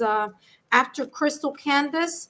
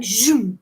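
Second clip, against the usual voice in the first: imitated zoom; 2 semitones lower, 4 dB louder than usual. Imitates messages rushing in quickly.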